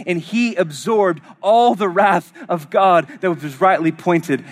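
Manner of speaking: impassioned preaching. Real, not acted. Preaches with rising intensity.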